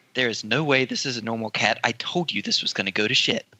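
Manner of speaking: hushed, barely voiced whispered aside. Acting out tapping the person in front on the shoulder, whispering. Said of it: "I'm just like whispering".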